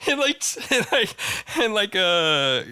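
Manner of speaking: high crab squeals through laughter; crab impression. Shown as a demonstration. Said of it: "lost brain cells in that impression".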